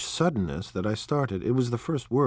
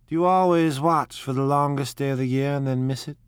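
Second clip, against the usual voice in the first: airy woman's voice; 5 semitones higher, 4 dB louder than usual. Acted. Daisy's dreamy question.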